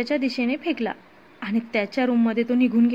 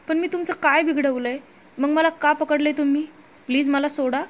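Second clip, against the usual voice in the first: a little higher, pleading to be let go; desperate plea; 3 semitones higher than usual. Acted. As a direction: beg the thugs, scared. Frightened captive pleading.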